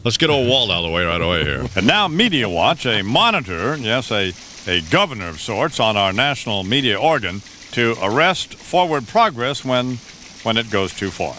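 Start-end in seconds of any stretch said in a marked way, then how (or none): 1.7-11.3 higher-pitched, swooping announcer intro; announcer voice with big pitch swings; mock-solemn segment introduction. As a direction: introduce the commentator with grand, halting pomp. Introduces the Media Watch segment.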